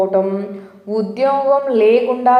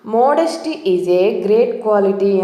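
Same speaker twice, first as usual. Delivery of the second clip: very slow, word by word; slow example sentence; much slower than usual. Shown as a demonstration. Teacher reads the example sentence very slowly to learners. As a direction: read it slowly for the class. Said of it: "దీన్ని example చూద్దాం".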